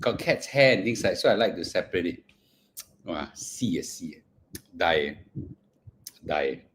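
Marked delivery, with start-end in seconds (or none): 3.1-6.6 low, very soft groan of delight; soft low moan. Real, not acted. Overwhelmed by durian flavor, low soft moan. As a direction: sink low and quiet, overwhelmed by taste.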